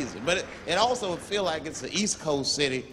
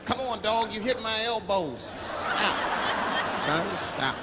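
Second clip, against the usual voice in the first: mild plea; 4 semitones higher, much slower than usual. Retold or imitated. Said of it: "That's all I said".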